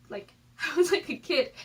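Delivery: a real laugh breaking into the words. Real, not acted. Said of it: "I can look back and laugh now".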